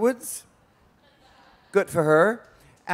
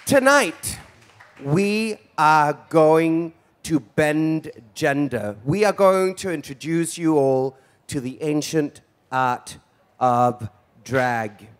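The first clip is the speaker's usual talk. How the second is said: showbiz host announcement; slower than usual. Acted. Hosting, announcing to the crowd.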